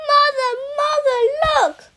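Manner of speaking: loud, high calling out to mother; boy running home yelling for his mother; excited shout. Acted. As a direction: shout it out, bursting with news.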